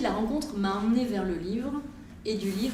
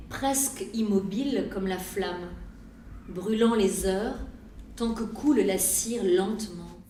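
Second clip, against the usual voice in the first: poem recitation. Acted. Reads her poem aloud.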